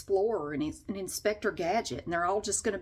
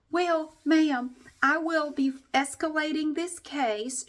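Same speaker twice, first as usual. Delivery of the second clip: prim agent voice; 6 semitones higher, slower than usual. Retold or imitated. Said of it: "And she goes".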